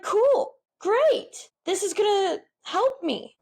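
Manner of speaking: very high mock-chipper voice; retold optimism. Retells own false optimism, pitched up.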